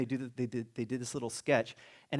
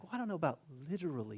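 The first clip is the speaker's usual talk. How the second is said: quick, softer hedging interviewer; hurried, quieter demurral; doubtful interviewer; 4 semitones higher, 5 dB quieter, faster than usual. Acted. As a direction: gently back off as the reporter. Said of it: "the interviewer's like".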